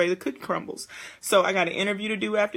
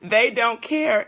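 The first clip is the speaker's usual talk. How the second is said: slow emphatic; 3 semitones higher, 6 dB louder, slower than usual. Shown as a demonstration. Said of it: "Let me use some bad English".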